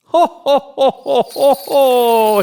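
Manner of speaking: high, loud jolly ho ho ho; Santa chuckle. A narrator's reading. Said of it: "he chuckled".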